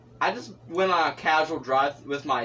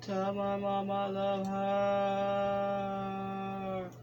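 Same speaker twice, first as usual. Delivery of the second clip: wounded soldier gasping; 5 semitones higher, 5 dB quieter, much slower than usual. Pretend. Drawn-out repeat of farewell.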